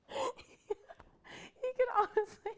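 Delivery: very high and slow, savoring it; high drawn-out swoon. Pretend. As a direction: stretch it out like a swooning fan. Gushing, retake drawn out.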